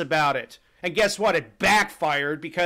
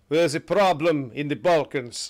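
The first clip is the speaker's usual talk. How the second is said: mock commander order; 4 semitones lower than usual.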